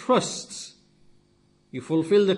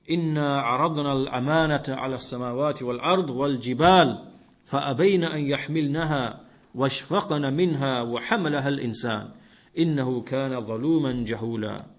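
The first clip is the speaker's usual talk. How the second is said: fast, flowing recitation of the verse; Quran recitation; 3 semitones lower, much faster than usual. Acted. Preacher quoting the verse to his listeners, swift recitation. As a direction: chant the Arabic verse in one swift breath.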